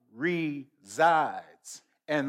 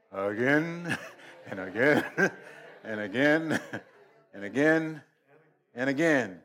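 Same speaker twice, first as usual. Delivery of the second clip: "Again and again" broken up with real laughs; chuckling repetition of again; laughing; 3 semitones lower than usual. Real, not acted. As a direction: laugh between each "again". Laughing through repeated again.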